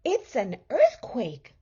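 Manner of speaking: wife panicking as the bed drops; shouting. A narrator's reading. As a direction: cry out in alarm. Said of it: "shouted Missus Watson".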